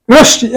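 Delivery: রশ্মি as "roshshi"; doubled sh sound. Shown as a demonstration. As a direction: say রশ্মি with a silent m. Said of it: "শয়ের নিচে ম আছে কিন্তু উচ্চারণ হবে".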